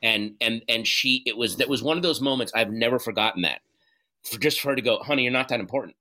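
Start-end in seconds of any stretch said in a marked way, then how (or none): 5.0-6.0 bitchy. Retold or imitated. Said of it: "she said it in kind of a bitchy way".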